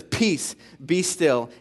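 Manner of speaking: mildly firm command, spaced out; understated scolding, as to a child. Retold or imitated. Jesus to the wind and waves, mildly scolding. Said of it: "as if he's scolding a child".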